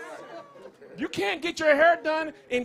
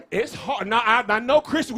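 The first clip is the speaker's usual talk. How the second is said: ordinary talk, nothing marked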